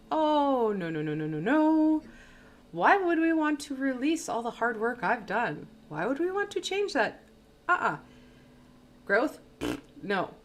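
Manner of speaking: high, loud, whiny protest that keeps climbing; the voice of the ego. Acted. The ego resisting change, in a high indignant whine. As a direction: play the stubborn ego refusing to let go. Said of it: "It is going to be like".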